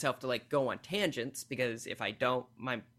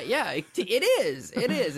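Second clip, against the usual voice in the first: emphatic; 9 semitones higher, 7 dB louder than usual. Real, not acted. Emphatic agreement, loud and high.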